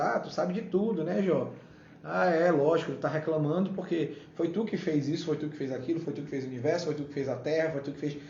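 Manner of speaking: mock agreement, piling up sarcastic credit; ironic. Preacher playing God needling Job, ironic. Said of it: "Deus usando de ironia".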